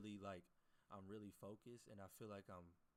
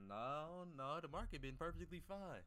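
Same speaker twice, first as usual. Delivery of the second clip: higher and louder, calling out the lie; emphatic retort; 6 semitones higher, 6 dB louder, slower than usual. Acted. Streamer rebutting copy traders' excuse, loud and emphatic. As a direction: shoot down the excuse hard.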